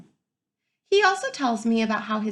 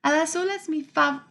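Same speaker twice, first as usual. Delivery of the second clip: happy thanks; 5 semitones higher than usual. Acted. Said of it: "I tell her".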